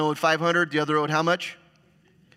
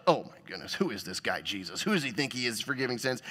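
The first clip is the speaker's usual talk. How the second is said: mocking tone; 3 semitones lower, 5 dB quieter than usual. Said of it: "get a little mocking tone".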